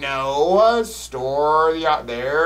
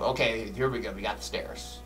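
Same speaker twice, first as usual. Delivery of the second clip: scared horror game streamer; 6 semitones lower, 10 dB quieter than usual. Real, not acted. Creeping upstairs in the dark.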